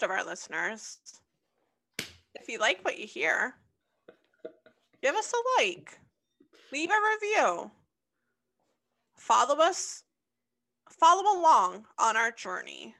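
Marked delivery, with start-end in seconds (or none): 2.0-12.9 high, loud cheery sign-off; excited plug. Acted. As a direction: pump up the listeners.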